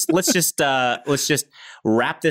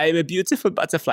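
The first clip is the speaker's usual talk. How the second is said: put-on German accent; 5 semitones higher, faster than usual. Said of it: "my German accent derives from the butterfly".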